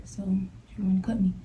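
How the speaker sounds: breathless whispered realization. Retold or imitated. Realizing the girl meant to cut her, whispered. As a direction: hush it, disbelieving.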